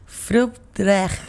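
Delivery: Fruit traag with a throaty Dutch-like ending; Dutch-sounding Welsh. Shown as a demonstration. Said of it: "It sounds like Dutch a little bit".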